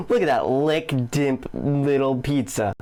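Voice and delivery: slow, laughing retelling of the slip; laughing quote. Retold or imitated. Commentator retelling the reviewer's flub: laughing. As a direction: chuckle through his flubbed words. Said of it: "he first says".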